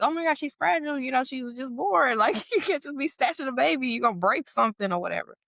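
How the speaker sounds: high, hurried protest; acted alarm. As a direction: imitate worried onlookers scolding. Imitated alarmed relatives protecting baby.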